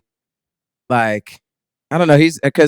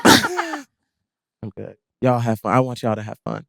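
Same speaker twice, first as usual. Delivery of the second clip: giggling through a spaced-out I'm good; laughing dazed reply; 2 semitones lower, 4 dB quieter, slower than usual. Retold or imitated. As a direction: chuckle while playing the zoned-out friend. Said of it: "my only response was".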